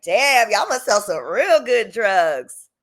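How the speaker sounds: slow, deadpan tease; slow half-serious jab; half-joking. Retold or imitated. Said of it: "kinda serious, but kinda not".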